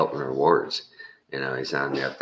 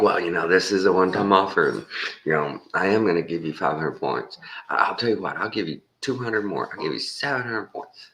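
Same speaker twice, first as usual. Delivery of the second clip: high, fast one-time-offer pitch, climbing higher; pushy salesman; 4 semitones higher than usual. Retold or imitated. Salesman upping the reward points to close the sale, high and fast. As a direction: sweeten the deal, pitch rising. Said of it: "He's like".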